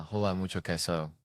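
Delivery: mock broken Spanish accent, lightly done; a hint of bad gringo Spanish. Seagal greeting Spanish speakers, mock broken Spanish accent. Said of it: "horrifically broken Spanish".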